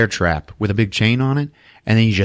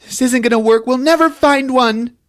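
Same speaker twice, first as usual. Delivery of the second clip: mock complaining; 14 semitones higher, 3 dB louder than usual. Acts out searchers giving up.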